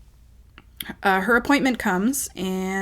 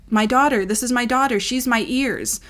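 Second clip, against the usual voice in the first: imitated mother, raised voice, pitched up; higher, emphatic mother impression; mother introducing daughter; 4 semitones higher, 3 dB louder than usual. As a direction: announce it like a hard-of-hearing mother. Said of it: "She always used to say to doctors".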